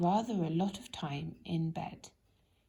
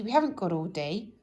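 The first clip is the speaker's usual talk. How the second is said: brisk impatience; 5 dB louder than usual. Acted. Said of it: "said Mister Busy".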